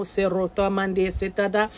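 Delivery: slow chanted made-up syllables; light language. Acted. Psychic speaking light language to clear space, slow chant. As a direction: intone the syllables slowly like a chant. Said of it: "speaking in my light language".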